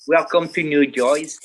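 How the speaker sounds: loud mock New Jersey accent on Welcome to New Jersey; hammed-up New Jersey accent. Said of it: "it's a New Jersey accent".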